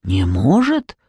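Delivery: very low troll voice rising at the end; low, puzzled troll question; troll's questioning echo. A narrator's reading. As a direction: repeat it as a troll, deep then lifting on "может". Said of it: "повторил тролль слева".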